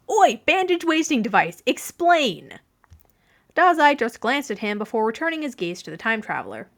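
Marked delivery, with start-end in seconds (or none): 0.1-2.6 exasperated yell. A narrator's reading.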